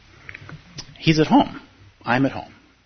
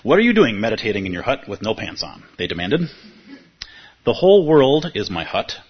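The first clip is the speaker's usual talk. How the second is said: teacher reading a parable to students, amused; story reading. Acted. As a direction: read the tale to the room, savouring it. Reads a Taoist story aloud.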